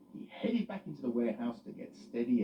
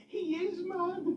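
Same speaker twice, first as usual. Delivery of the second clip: amused; 3 dB louder, slower than usual. Acted. Loretta voiced.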